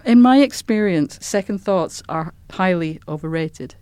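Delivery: lightly voiced haughty old lady; a hint of a grand dowager; Dowager Countess voice. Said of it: "it's the way she tells it".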